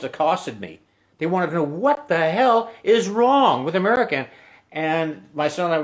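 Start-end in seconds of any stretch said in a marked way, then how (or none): 1.6-4.3 higher, exasperated pubgoer voice; exasperated Irish local. Retold or imitated. Irish drinker challenging an American tourist, exasperated and higher. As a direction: throw the question at him in disbelief.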